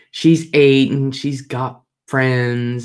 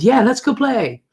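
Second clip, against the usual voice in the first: imitating a child in a high voice; high-pitched kid agreeing to play; little boy; 11 semitones higher, 4 dB louder than usual. Little brother agrees to play with sister, imitated little boy. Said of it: "He said".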